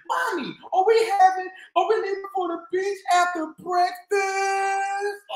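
put-on high, eager little girl's question; eager child. Girl begs mom about the beach, eager.

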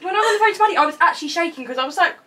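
laughing. Real, not acted. Excited laughing retelling.

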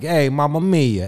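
light mock Italian exclamation; playful Italian catchphrase; Italian talk. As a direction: toss it off with a hint of Italian. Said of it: "I'm Italian, so you know how you, you, we talk like this".

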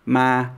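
ma held level and robotic; flat tone. Shown as a demonstration. Teacher demos the flat tone for learners. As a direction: keep ma flat. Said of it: "robotic, flat tone".

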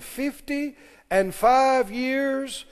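measured, slow reading of "fifty and five years"; scripture reading. Real, not acted. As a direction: read "fifty and five years" out slowly, at full voice. Reading the verse aloud.

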